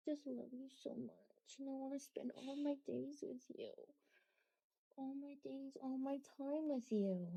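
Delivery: soft and quiet, close to the dog; soft tender coo. Real, not acted. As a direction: murmur it lovingly. Softly cooing to her dog.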